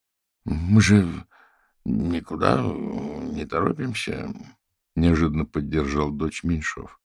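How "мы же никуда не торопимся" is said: calm reassurance. Acted. Father calmly backs daughter.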